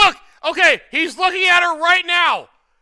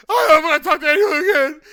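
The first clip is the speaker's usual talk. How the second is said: hammed-up blubbering imitation; exaggerated crybaby mockery; mock crying; faster than usual. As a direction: mimic someone wailing through fake tears. Mimics the man he's mocking.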